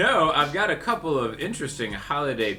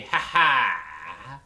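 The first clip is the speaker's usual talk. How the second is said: evil chuckle; 6 semitones lower than usual. Acted. Villain spirit laughs.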